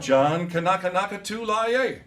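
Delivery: teacher calling out each phrase for the class to echo. Shown as a demonstration. Music teacher calling phrases for the kids to echo back. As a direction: call it out for them to repeat. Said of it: "repeat after me".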